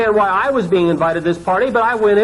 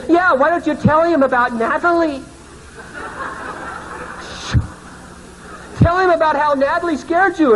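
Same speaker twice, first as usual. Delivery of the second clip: higher, teasing sing-song; mocking tease; 8 semitones higher than usual. Friends teasing the pastor, higher mocking voice. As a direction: egg him on with a grin.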